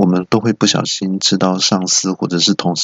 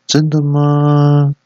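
suspicious chairman; 7 semitones higher, 4 dB louder, much slower than usual. Acted. Chairman doubts friend.

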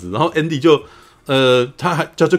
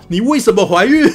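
retold angry question, higher and louder; angry demand; 9 semitones higher, 5 dB louder than usual. Father scolding his pregnant daughter, mock angry and raised. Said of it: "然后巴上就生气了".

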